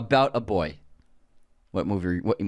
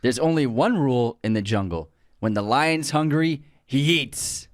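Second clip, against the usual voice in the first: movie quote; 3 semitones higher than usual. Acted. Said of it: "here's my quote".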